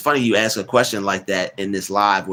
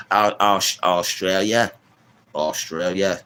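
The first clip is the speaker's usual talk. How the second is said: put-on Australian accent; slower than usual. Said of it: "Don't get me doing that accent".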